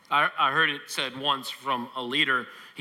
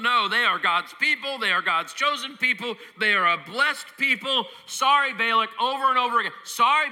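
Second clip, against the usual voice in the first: raised, insistent preacher voicing the prophet; firm refusal; 4 semitones higher than usual. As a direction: refuse the king over and over, higher and pressing. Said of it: "He's like".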